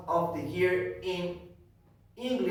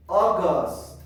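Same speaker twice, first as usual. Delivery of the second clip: loud, emphatic model word; projected classroom prompt; teacher's drill call; 7 dB louder than usual. Shown as a demonstration. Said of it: "I am going to say".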